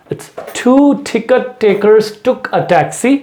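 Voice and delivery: very slow, T sounds punched out; slow tongue twister. Shown as a demonstration. Teacher slowly models a tongue twister for practice. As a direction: drag each word, hit every T. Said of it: "फिर मैं बोल रहा हूँ".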